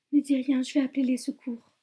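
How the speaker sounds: urgent plea. Acted. Comforting dying deputy, urgent.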